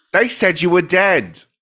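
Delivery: put-on London Cockney accent. Voicing the woman in a scripted reunion scene, cockney accent. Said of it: "she'll be um like a Cockney accent".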